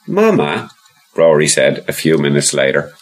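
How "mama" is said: put-on high little boy voice; child voice. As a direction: voice young Rory, high and eager. Rory asks again.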